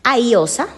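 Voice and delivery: "aiosa" for mariposa, dropping the m, r and p; child error aiosa. Shown as a demonstration. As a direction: say "aiosa" as a toddler's try at mariposa. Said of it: "yo te puedo decir".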